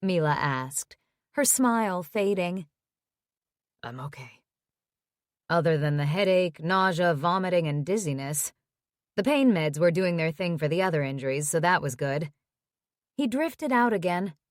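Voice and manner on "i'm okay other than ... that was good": injured son. Acted. Tyler voiced by narrator.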